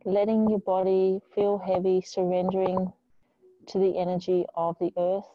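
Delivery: calm, measured yoga-teacher guidance with long pauses; unhurried meditation voice; guided meditation. Real, not acted. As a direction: ease them into stillness, leaving space between phrases. Leads a grounding meditation.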